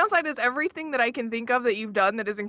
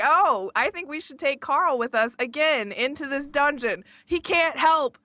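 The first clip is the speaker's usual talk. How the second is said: higher, slow doting adventurer; character voice; 4 semitones higher, slower than usual. Retold or imitated. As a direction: dote on the goblin lightly. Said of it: "So it's like".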